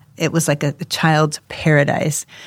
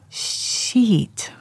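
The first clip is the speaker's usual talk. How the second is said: higher-pitched, baffled questioning; puzzled repeat; 6 semitones higher, 3 dB quieter, much slower than usual. Retold or imitated. Parents puzzling over their son's word, bewildered. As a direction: try the odd word out, mystified.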